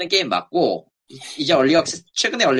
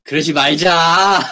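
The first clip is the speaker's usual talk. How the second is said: laughing; 4 dB louder, slower than usual. Real, not acted. Laughing at the stamp joke.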